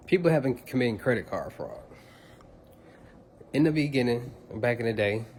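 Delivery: talking while eating; words around a mouthful of food; wolfing down food. Real, not acted. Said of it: "make me something to eat".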